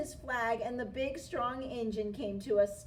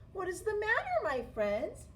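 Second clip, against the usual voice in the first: friendly; 6 semitones higher than usual. A narrator's reading. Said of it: "she asked friendly".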